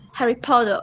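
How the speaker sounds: Potter ending in an O sound; Australian O ending. Shown as a demonstration. Student showing how Australians say it, O ending. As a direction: round the end of Potter into oh. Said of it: "Australian people pronounce like O".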